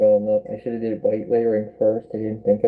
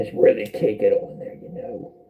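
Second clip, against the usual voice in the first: rough, gruff-toned voice. Talking while painting, in a gruff voice. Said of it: "Why am I talking such a gruff voice?".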